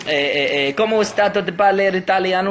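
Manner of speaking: badly faked Italian patter; Italian accent. Shown as a demonstration. Offering Italian instead of Spanish, put-on accent. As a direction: have a go at mock Italian. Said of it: "I can do Italian".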